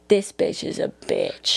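low, slow, hushed verdict; disdainful aside. Retold or imitated. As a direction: mutter it slowly, like a private judgement. Voicing Southerners' private verdict.

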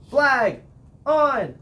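high, loud, drawn-out call; full-voiced yell. Shown as a demonstration. Band captain celebrating the other team's flag, yelled. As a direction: belt out each word separately. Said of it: "I yell".

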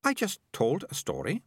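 put-on high girl's voice, composed; mildly serene self-justification; calm. A narrator's reading. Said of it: "said Melicia calmly".

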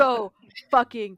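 loud, slow, drawn-out emphasis; laughing, emphatic rave; excited gushing. Real, not acted. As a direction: stretch each word out in amazed praise. Raving about the film amid laughter.

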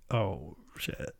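hushed, under the breath; quiet retold shock; stunned reaction. Her own stunned reaction, retold.

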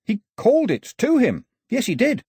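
high, breathless tale to the crowd; dramatic storytelling. A narrator's reading. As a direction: spin a wild tale, wide-eyed. Pilou dramatically tells shark story.

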